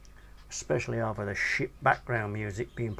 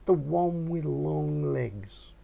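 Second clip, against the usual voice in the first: 1 lightly voiced young lad; 6 semitones higher than usual. A narrator's reading. Narrator voices himself in dialogue.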